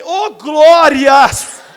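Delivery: a loud, drawn-out hallelujah; glory exclamation. Retold or imitated. Pastor hearing it's a man, loud drawn-out praise. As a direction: stretch it out in mock relief.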